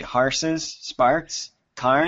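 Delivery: put-on Harses, Sparks, Karn in a Utah accent; grandfather's Utah accent, lightly. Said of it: "my wife's grandfather speaks like that".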